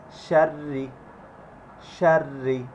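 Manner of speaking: "শাররি" with a light, thin doubled R. Shown as a demonstration. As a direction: keep the R in "শাররি" thin before the long i. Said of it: "পাতলা করতে হবে". ("শাররি"-র র পাতলা উচ্চারণ)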